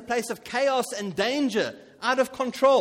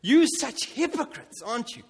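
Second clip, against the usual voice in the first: a hint of a jeering unbeliever; mocking skeptic; 3 semitones higher than usual. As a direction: lightly mimic a scornful skeptic. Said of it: "They say".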